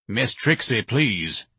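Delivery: irritated cut-in; angry plea. A narrator's reading. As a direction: cut in with exasperation. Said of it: "Mister Levy said angrily".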